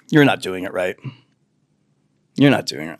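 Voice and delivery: low, soft condescending voice; smug know-it-all. Acted. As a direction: talk down like the smartest one in the room. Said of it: "I call them the pickle jar people".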